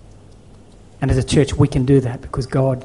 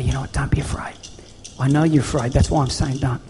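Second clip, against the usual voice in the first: softer, half-whispered comfort; gentle reassurance; 5 dB quieter than usual. Retold or imitated. Father God quietly reassuring frightened Joshua, soft whisper. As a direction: hush him like a father calming a son.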